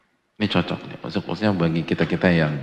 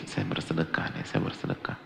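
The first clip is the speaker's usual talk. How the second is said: mock inner voice; 5 semitones lower, 9 dB quieter than usual. Inner reflection while smiling.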